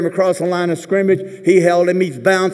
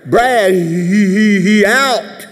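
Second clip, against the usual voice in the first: slow, louder flustered report; Franco voice; 2 semitones higher, 3 dB louder, slower than usual. Retold or imitated. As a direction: stammer out the bad news. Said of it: "And Franco".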